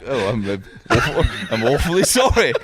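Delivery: lightly posh English apology, amused; mock posh apology. Coach apologising to John, mock posh. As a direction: slip back into polite posh English. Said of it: "and then I'll be like".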